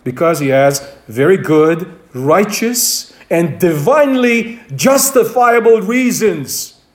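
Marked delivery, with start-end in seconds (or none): 3.3-6.8 "divinely" given deliberate weight; stress on divinely. Real, not acted. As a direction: set out "divinely" with firm emphasis. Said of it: "Hence the emphasis on the word".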